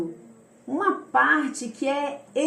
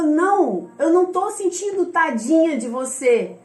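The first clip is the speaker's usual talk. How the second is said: emphatic, raised retort; insistent, higher, hitting key words hard; prophet's firm refusal; 3 semitones higher, 4 dB louder, slower than usual. Retold or imitated. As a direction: voice a prophet firmly refusing pity. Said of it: "Ele falou".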